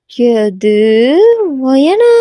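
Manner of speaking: mildly astonished, pitch jumping on the question; open-mouthed surprise. Acted. JK taking in her new look, astonished. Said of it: "வாயை பிளக்குறான்".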